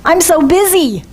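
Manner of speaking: imitating a stressed person, sighing it out; a hint of weary busyness; mock harried complaint. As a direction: sound put-upon and overworked. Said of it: "how often do you hear or maybe even say".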